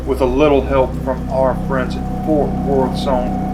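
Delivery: dramatic commercial voiceover; ad read. Acted. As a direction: read it like a beer ad. Reads promo copy.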